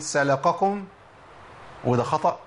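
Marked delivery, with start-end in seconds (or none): 0.0-0.8 "سلككم" said as salaqakum, heavy q for k; wrong "سلككم" with a thick, back k; thickened kaf. Shown as a demonstration. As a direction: make the first kaf of "سلككم" a heavy qaf. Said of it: "أفخمها وأقول".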